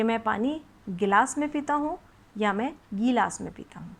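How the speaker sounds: गिलास short gi then गीलास long gee. Shown as a demonstration. Teacher asks children to compare two sayings, short then long. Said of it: "आप खुद मुंह में दो बार बोलेंगे".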